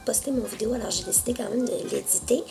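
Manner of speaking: hoarse from a bad cough. Real, not acted. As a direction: speak with a raspy, hoarse throat. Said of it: "pour ma voix rauque".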